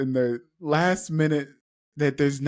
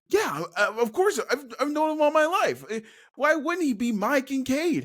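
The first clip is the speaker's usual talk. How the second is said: defensive high voice; 11 semitones higher than usual. Acted. Kincaid insists defensively.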